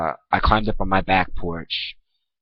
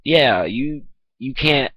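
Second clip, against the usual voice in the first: higher mocking dad voice, stammering; imitating dad; 4 semitones higher than usual. Son mocks dad refusing him a shower, higher sneering voice. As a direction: parody the father, pitched up and sneering. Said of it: "And he's like".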